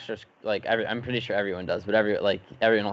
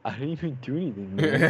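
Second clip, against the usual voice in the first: monotone; 4 semitones higher than usual. Retold or imitated. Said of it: "monotone person".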